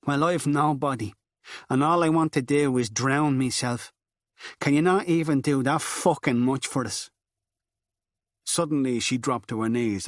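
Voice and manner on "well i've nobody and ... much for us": higher, louder, bitter and desperate; despairing outburst. Acted. Girl lashing out at Furlong in despair, bitter. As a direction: fling the anger at him, near breaking.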